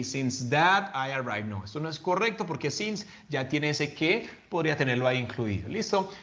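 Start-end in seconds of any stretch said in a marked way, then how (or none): 0.0-1.5 wrong example. Shown as a demonstration. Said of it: "No vayan a colocar".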